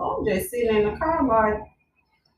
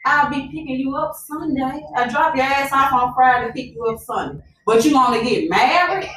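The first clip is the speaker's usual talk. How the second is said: incredulous retort; 4 semitones higher than usual. Retold or imitated. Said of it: "I'm like".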